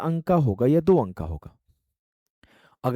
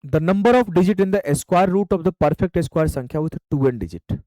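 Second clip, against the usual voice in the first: slow dictation; 2 semitones higher, much slower than usual. Shown as a demonstration. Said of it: "teacher dictates the question slowly".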